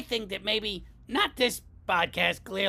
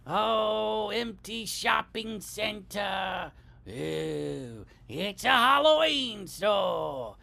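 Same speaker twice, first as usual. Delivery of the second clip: mock surprise; slower than usual. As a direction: ham up the sudden store. Mock passerby discovering new store.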